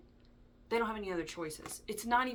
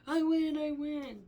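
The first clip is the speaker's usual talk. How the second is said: gloating; 9 semitones higher, 7 dB louder, slower than usual. Retold or imitated. Friend mocks ex's gloating.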